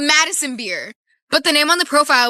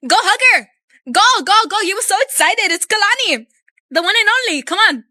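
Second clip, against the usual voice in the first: mock cheering; 7 semitones higher than usual. Teasing cousin at old lady.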